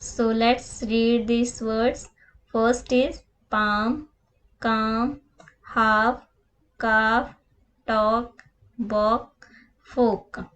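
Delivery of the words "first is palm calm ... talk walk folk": palm, calm, half, talk said with no L sound; each word alone with a pause, L left silent. Shown as a demonstration. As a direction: read the list for pupils, never sounding the L. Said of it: "एल letter को pronounce नहीं करना है".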